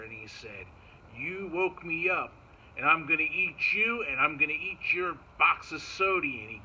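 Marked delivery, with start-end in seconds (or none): 1.2-6.4 a loud bear's threat, lightly voiced; grumbly bear. Woken bear threatening the grandson, lightly voiced grumbly bear. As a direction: lightly play a big bear, punching the threat loudly.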